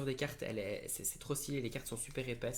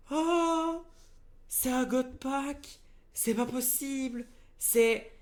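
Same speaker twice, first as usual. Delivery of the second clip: high, loud cry of astonishment; real overexcited shock; amazed disbelief; 12 semitones higher, 6 dB louder, slower than usual. Real, not acted. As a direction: exclaim it as if you can't believe your luck. Cannot believe the god pack.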